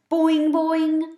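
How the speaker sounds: loud, high twanging boing; a frog's bright twanging call. A narrator's reading. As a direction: twang it like a springy frog. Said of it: "Og twanged".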